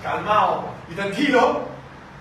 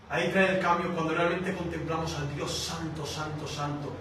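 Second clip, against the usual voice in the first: softer and lower, santo santo fading; hushed reverence; 4 semitones lower, 6 dB quieter than usual. Real, not acted. Preacher in awe of the holy God, hushed. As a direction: breathe the word santo in awe.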